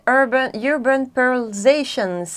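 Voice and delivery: English brand words in a French accent; careful, drawn-out English with French accent. Real, not acted. Vlogger attempting an English product name, French accent. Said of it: "pour l'accent".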